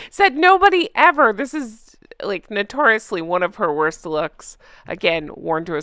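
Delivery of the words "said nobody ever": sarcastic. Acted. Mocking a tweet.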